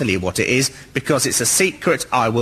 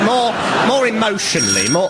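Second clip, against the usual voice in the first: raised pitch, hammed-up feeling; mock emotional; 10 semitones higher than usual. Contestant explaining the warm feeling, mock emotional. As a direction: lift the voice into mock sentiment. Playing up emotion about the misnaming.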